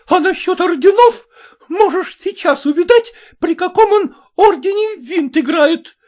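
very high, loud, near tears; shrieking fury. A narrator's reading. Maternitskaya shrieks back at the mother, furious. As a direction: shriek out the insults.

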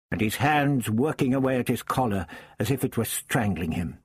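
usual speaking voice

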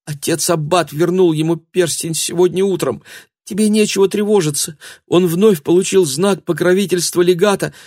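put-on girl confessing to the angry man; frightened girl. A narrator's reading. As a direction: blurt it out through fear.

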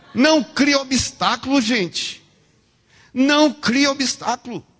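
high, loud admonishing call; forceful exhortation. Real, not acted. Preacher warning congregation not to create obstacles, loud and emphatic. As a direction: drive the warning home to the crowd.

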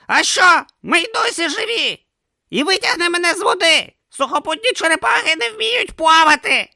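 high, loud urgent pleading; urgent shouting. A narrator's reading. Om urging Brutha to jump, loud and urgent. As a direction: shout it, desperate and fast. Om in the water.

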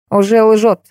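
triumphant exclaim. Acted. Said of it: "торжествующе воскликнула Катерина Андреевна".

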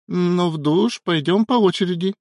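high, playful mock warning; laughing warning. A narrator's reading. Wife to husband embracing her, laughing warning. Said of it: "со смехом предупредила Яна".

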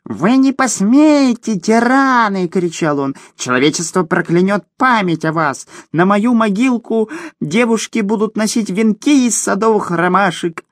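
high, thin, melodramatic gnome wail; thin little voice. Acted. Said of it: "завопил тонким голоском".

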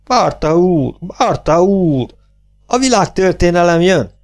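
high, stretched-out calls; calling out. A narrator's reading. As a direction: call grandly for a missing man. Calling out for Barta. (emelt hangú, elnyújtott szólongatás)

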